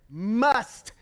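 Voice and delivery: "must" set apart on its own, firmly; stress on must. Shown as a demonstration. Preacher repeating the word to drive it home, firm on "must". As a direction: give "must" its own weighted beat. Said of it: "I don't want to emphasize that word".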